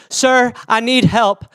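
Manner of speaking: lightly voiced stranger begging for help; drawn-out imitation of a plea; crazy stranger. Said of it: "and the guy is like".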